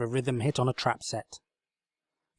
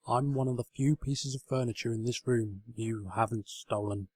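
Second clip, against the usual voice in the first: gentle; 3 dB quieter than usual. Acted. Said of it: "came a gentle voice".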